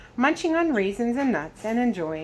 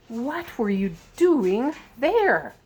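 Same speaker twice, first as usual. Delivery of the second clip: slow disturbed; 5 semitones higher, 4 dB louder, much slower than usual. Acted. Disturbed president asks.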